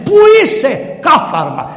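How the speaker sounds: high shout on the first words, then dropping back; angry shout. Retold or imitated. Mother searching the palace for the emperor, angry shout. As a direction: call out sharply through the halls. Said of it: "φώναζε".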